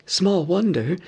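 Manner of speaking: mock echo of the butler; elves mocking. A narrator's reading. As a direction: throw his words back at him. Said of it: "said they".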